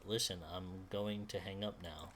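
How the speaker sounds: soft, about to cry; close to tears. Acted. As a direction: hold back tears, quietly. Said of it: "She sounds like she's about to cry".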